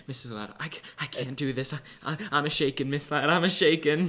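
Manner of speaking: hushed, stammering melodrama; dramatic mock panic. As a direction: imitate a stage-frightened friend, small and quavery. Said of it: "always been on the dramatic side".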